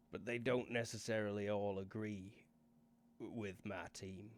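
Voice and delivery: lightly voiced Northern English boss; a touch of a Northern English accent, unhurried. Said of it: "the speaker's suddenly English and Northern".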